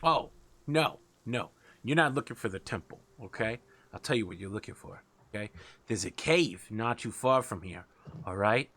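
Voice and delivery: a lightly voiced wheedling rat boss; scheming rat king. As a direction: pitch the job like a shifty rat king.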